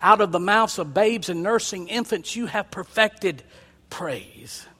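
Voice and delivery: soft, hushed quoting of Jesus; quiet Jesus. Retold or imitated. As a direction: let the words sink in softly. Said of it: "Jesus said".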